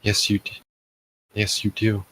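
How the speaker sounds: soft, breathy teasing repeat; breathless. A narrator's reading. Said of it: "you said through breaths, jokingly".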